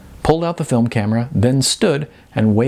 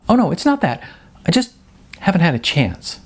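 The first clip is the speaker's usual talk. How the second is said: flustered denial; 8 semitones higher than usual. Acted. Jasmine defending herself.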